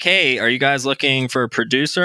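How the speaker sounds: usual speaking voice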